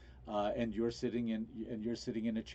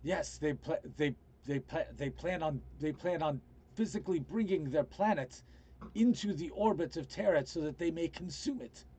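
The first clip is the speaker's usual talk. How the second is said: lightly voiced character, halting and pitched up; rescued man, urgent; 4 semitones higher than usual. Man warns of a planet brought to Terra, mildly agitated. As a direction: stammer out the warning, restarting as you go.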